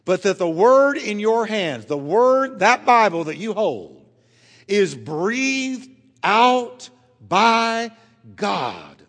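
preacher peaking on the Warfield quote; building preacher climax. Real, not acted.

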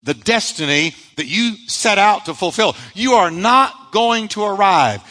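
a hint of an ominous taunting voice; voice of the storm. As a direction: taunt them as the storm would. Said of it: "Their storm was telling them".

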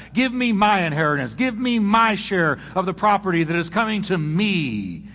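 pushy, self-centred demanding tone; entitled demand. Retold or imitated. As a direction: stress every me and my. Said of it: "listen to the my's and me's".

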